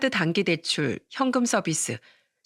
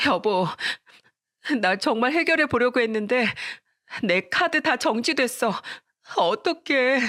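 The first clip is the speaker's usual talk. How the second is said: begging; 5 semitones higher than usual. A narrator's reading. Wife begging husband after her cards are frozen, higher and desperate. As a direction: plead with him, near tears. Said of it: "싹싹 빌면서".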